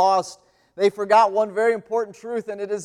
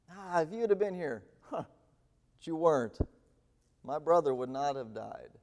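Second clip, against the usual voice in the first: pained, frustrated Martha; 4 semitones lower, 7 dB quieter than usual. Acted. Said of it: "you can hear the pain, you can hear the frustration in Martha's voice".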